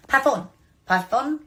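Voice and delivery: Pafon said PAF-on, short A; trying a pronunciation. Shown as a demonstration. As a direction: repeat Pafon with the vowel of cat. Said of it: "However I'm to pronounce this".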